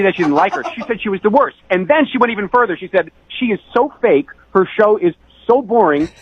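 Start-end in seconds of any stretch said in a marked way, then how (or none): 3.4-6.1 higher, sneering imitation of her; a hint of a snooty date; mock snooty rant. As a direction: mimic her scorn, a little hammed. Imitating date's rude rant.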